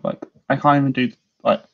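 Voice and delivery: talking with a pen in mouth; pen in teeth. Real, not acted. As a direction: say it round a pen between teeth. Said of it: "sorry, got a pen in my mouth".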